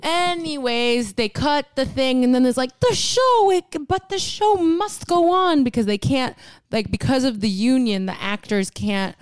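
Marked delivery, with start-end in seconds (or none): 2.8-5.6 high, drawn-out theatrical cry; raised mock cry. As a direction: belt it like a stagey actor. Acted quote of the actors.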